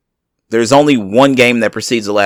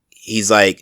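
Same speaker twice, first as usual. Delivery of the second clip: whisper. Real, not acted. Whispered aside in story.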